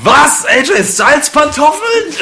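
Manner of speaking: hoch und laut vor Staunen; ungläubig aufschreien; ungläubig überrascht. Real, not acted. Geschenk ausgepackt, ungläubig. (fassungslos über das Geschenk)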